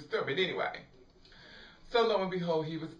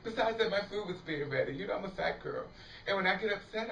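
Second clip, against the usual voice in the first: ordinary talk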